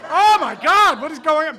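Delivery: high, loud panicked cry; re-enacted backseat freak-out, very loud; acted-out panic. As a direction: cry out like a terrified passenger. Acting out panic during fast drive.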